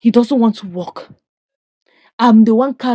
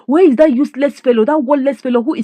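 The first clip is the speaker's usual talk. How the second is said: mild mock shout; 4 semitones higher than usual. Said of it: "Shouted at the top of her voice".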